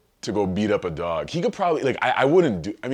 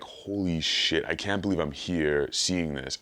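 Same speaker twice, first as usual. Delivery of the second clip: awestruck; slower than usual. Retold or imitated. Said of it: "really stop and be like".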